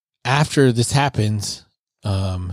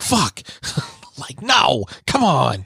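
mock dismay; 3 semitones higher, slower than usual. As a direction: complain like the show was cut off. Reacting to episode ending.

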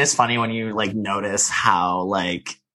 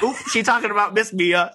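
sassy gossip; 9 semitones higher than usual. Retold or imitated. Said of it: "I was like".

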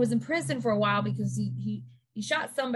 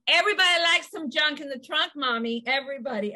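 playful boast; 5 semitones higher, 3 dB louder than usual. Retold or imitated. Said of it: "I go".

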